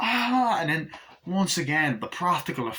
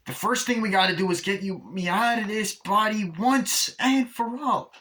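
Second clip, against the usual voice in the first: scheming doll; 9 semitones higher, 3 dB louder than usual. Retold or imitated. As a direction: lay out the plan like a gleeful little villain. Chucky plans body swap.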